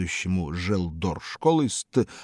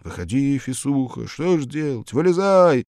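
pleading; 7 semitones higher, 6 dB louder than usual. A narrator's reading. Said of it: "молили его ученики".

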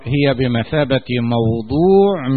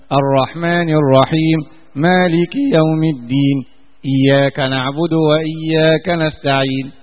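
Quran recitation. Acted. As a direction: recite with tajweed, unhurried. Recites the Fatiha. (تلاوة مجودة هادئة)

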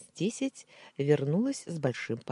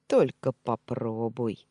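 smirking threat; 2 semitones lower, 5 dB louder, slower than usual. Acted. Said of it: "усмехнувшись, припечатал Алишер".

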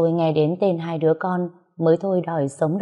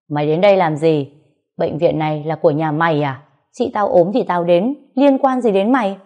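angry; 4 dB louder than usual. Acted. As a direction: hurl the questions at her like a bully. Brother-in-law confronts narrator angrily.

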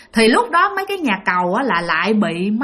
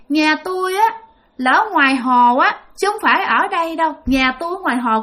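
put-on child's voice; 4 semitones higher than usual. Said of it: "cái giọng của một đứa con nít".

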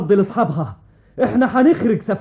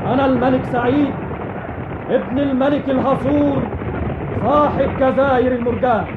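roaring tyrant king; 2 semitones higher than usual. Acted. King challenges the enemy army.

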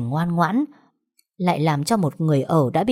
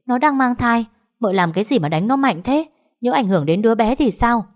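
snapping sharply; 6 semitones higher than usual. A narrator's reading. Nanny scolds the wife for striking the maid, sharp and high. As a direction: scold her sharply in defense. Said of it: "gắt lên".

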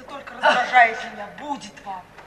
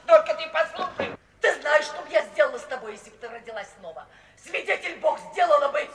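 ordinary talk

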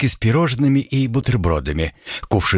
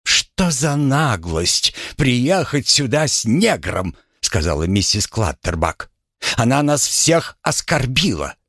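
indignant lady; 4 semitones higher than usual. Acted. Mrs Clutterbuck indignant.

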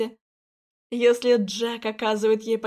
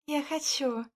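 soft, quiet breathy whisper; breathed; 4 semitones higher, 6 dB quieter, slower than usual. Acted. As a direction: breathe it into his lips. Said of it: "выдохнула ему в губы".

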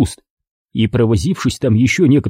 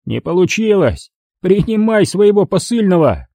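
high, vicious thug outburst; raging thug; 6 semitones higher than usual. Acted. Thug rages at crying Tatiana in a high vicious voice. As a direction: lash out at the crying woman.

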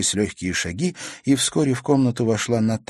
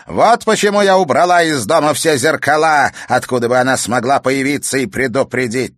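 much higher, louder triumphant crone; gloating witch; 6 semitones higher, 8 dB louder than usual. Acted. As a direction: gloat over your reward. Villain continues.

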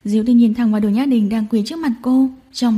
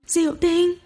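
sudden higher cry of the name; 6 semitones higher, 3 dB quieter, slower than usual. Acted. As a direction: call out startled. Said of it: "kêu lên". (kêu lên thảng thốt)

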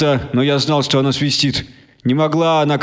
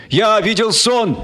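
slow, high proclaiming cry; cried out; 8 semitones higher, slower than usual. Acted. Speaker crying his slogan to the crowd. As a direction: call it out to the crowd. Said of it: "крикнул Мартин Кеннинг".

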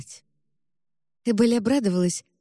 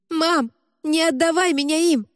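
high, panicked cry; girl pleads as men seize her; terrified plea; 9 semitones higher than usual. Acted. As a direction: scream for mom as they drag you, higher. Girl dragged away by men.

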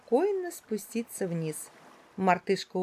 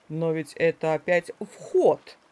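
surprised; 4 semitones lower, 3 dB louder than usual. Acted. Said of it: "удивился удав".

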